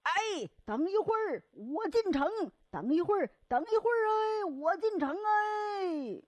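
man hurrying to get into town; calling out to wait. Acted. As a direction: shout from afar so the gate stays open. Man calls to gatekeeper.

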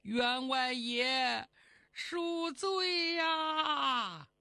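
very slow, drawn-out wailing cry; kneeling plea shout. Acted. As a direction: drag it out like a begging servant. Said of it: "喊了一嗓子". (跪地拖长腔哭喊求饶)

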